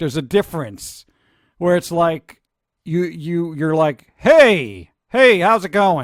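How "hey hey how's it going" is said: loud, projected, swooping voice carried from the belly. Showing another speaker how to project: projected voice. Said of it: "You're projecting".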